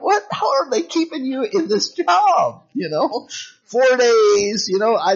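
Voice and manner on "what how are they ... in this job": slow, high disbelieving question; incredulous. Retold or imitated. Preacher retelling his disbelief at a coworker, high and incredulous. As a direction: ask it like you can't believe it. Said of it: "I'm like".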